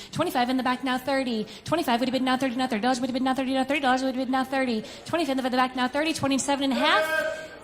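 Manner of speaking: rapid bid-calling chant; auctioneer. Acted. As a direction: roll the numbers like an auctioneer.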